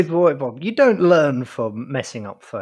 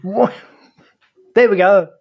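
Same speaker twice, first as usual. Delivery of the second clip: calling out; 6 semitones higher, 6 dB louder than usual. Real, not acted.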